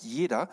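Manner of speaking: jeder leaned on as the key word; stress on jeder. Shown as a demonstration. Preacher stresses jeder to the congregation, firmly. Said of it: "Ich finde das aber ansprechender, wenn es heißt".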